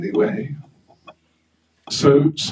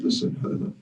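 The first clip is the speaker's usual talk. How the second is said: chastising; 5 semitones higher than usual. Acted. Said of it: "came and chastised Hanuman".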